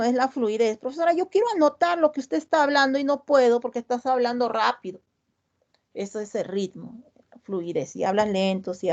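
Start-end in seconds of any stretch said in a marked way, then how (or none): 0.8-5.0 quick, raised student complaint; hurried student. Acted. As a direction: rush it like a flustered pupil. Student complains teacher talks fast.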